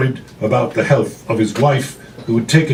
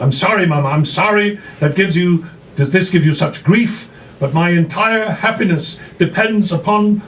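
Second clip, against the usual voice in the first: daughter pleading, higher and quick; upset daughter; 5 semitones higher than usual. Acted. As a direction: push back hard, hurt and insistent. Daughter protests to her mother.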